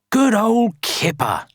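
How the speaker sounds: high, cheery storybook praise; praising. A narrator's reading. Villagers praising Kipper for mending houses, praising.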